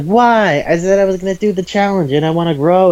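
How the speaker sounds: high-pitched, mock indignant objection; indignant protest. Refused girl objects to the hero, indignant.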